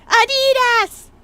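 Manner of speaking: loud, high, drawn-out battle cry; Hornet. Retold or imitated. Player mimics a game character's cry, high and loud. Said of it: "I heard Hornet saying that".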